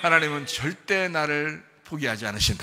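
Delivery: loud preacher's declaration; emphatic proclamation. Real, not acted. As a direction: proclaim it firmly to the congregation. Preaching climax answered by amens.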